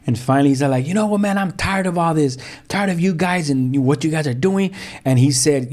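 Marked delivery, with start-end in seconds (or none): 0.9-4.7 higher-pitched weary complaint; retold fed-up father. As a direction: voice a dad who has had enough. Retold dad reaching end of patience.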